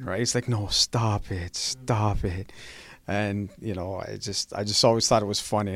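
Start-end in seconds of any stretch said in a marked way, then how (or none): 0.5-2.5 slow, drawn-out mild disbelief; gently mocked, lingering protest; mimicking his catchphrase. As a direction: lightly imitate a friend waving you off, words stretched. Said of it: "I'd always mimic him about it".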